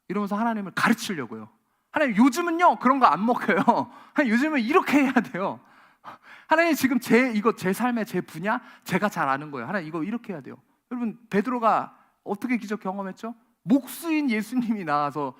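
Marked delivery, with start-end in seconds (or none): 1.9-10.6 mock know-it-all lecture. Preacher voicing know-it-all believer.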